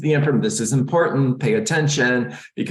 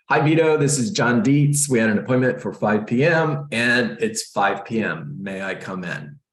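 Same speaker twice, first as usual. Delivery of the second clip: bright, raised and eager at the door greeting; upbeat script demo. Shown as a demonstration. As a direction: greet the homeowner with lifted energy, then ease down. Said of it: "It's a great script".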